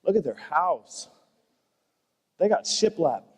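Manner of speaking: mock envy. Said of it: "you're like".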